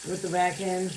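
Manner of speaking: toothless speech, lips over gums; no dentures in. Real, not acted. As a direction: talk with your dentures out. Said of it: "I'm sorry if it's hard to understand without my dentures in".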